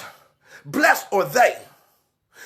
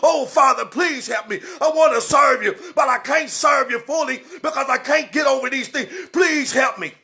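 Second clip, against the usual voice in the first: begging. Retold or imitated. Sinner on the floor begging the Father, pleading. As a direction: plead with God on your knees. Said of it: "He'll hit the floor and beg".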